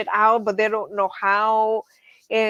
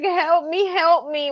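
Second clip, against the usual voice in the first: higher-pitched mock cry for help; imitated baby goat plea; 6 semitones higher than usual. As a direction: lightly voice a distressed baby goat pleading. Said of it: "hear this baby goat just, like".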